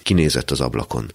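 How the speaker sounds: usual speaking voice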